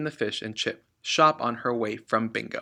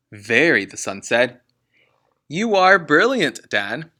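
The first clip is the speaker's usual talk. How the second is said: slow, whispered awe; whispered worship of dad; admiring son; 3 semitones higher, 8 dB louder than usual. Acted. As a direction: gush with admiration.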